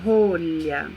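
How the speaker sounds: slow card read, what rhymes with rolha. Shown as a demonstration. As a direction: read it like a prompt to a child, slowly. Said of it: "o card tá falando".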